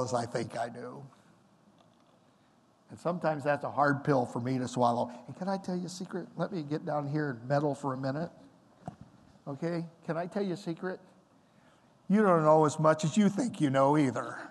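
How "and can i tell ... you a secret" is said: leaning in to whisper. Acted. Confiding a secret to congregation.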